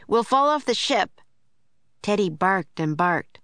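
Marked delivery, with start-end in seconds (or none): 0.1-1.2 raised, higher-pitched warning; urgent warning cry; Jack shouting. A narrator's reading. Jack warning Annie on the tilting deck, urgent shout. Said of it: "shouted Jack".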